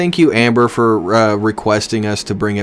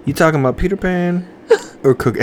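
put-on college girl voice; 3 semitones higher than usual. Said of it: "I can't keep the voice".

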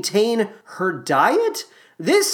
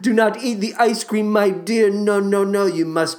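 mild Michael Crawford voice. Retold or imitated. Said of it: "he was there saying to her".

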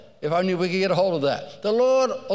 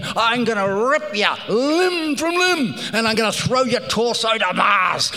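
gorilla's threat; 4 semitones higher than usual. Retold or imitated. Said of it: "every expression saying".

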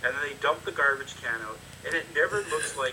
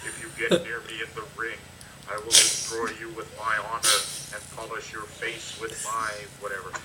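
booming put-on Low Ki voice, lower; dopey cartoon bellow; 4 semitones lower, 3 dB louder than usual. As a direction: puff up into a giant fake voice. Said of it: "has a giant voice like this".

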